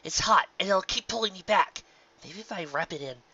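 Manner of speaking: fretting, then cut off mid-thought; worried Rainbow Dash. A narrator's reading.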